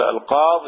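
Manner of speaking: "القاض" ending on the consonant; ya dropped. Shown as a demonstration. Teacher showing how some people read it, ya dropped. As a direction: stop "القاض" before any ee. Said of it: "يحذف الياء مع وجود الألف واللام".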